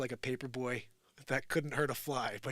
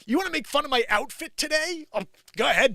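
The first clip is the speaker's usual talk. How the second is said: higher, louder taunting dare; defiant challenge; 13 semitones higher, 8 dB louder than usual. Retold or imitated. The new kid daring the bullies, loud and taunting. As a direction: dare them to bring it on. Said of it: "It's like".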